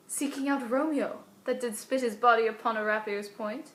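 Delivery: scared stage soliloquy, alarm at the outset; worried mind picturing horrors; Juliet. Acted. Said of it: "scared kind of mixture".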